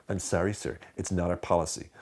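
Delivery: mildly sarcastic fake apology; a touch of mock politeness to a customer. Shown as a demonstration. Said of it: "say it with a sarcastic tone of voice".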